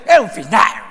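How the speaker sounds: sudden mock outburst after sweetness; snappish denial. Sweet-talker confronted over a wrong, snapping back defensively. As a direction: blurt it defensively, voice jumping.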